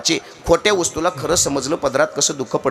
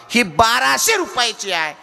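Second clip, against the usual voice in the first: higher, insistent offer; father upping the offer; 6 semitones higher than usual. Retold or imitated. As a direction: lift the voice on the biggest price. Father offers costlier toys.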